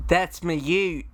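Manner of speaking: trying an Australian accent. Shown as a demonstration. Guest repeats the Australian slang phrase, Australian accent. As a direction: copy the host's Australian phrase. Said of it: "do the Australian thing".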